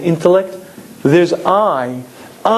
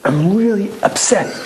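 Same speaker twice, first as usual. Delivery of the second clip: higher, leaning on really; stressed self-admission; 4 semitones higher than usual. Shown as a demonstration. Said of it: "knowing the following yesod".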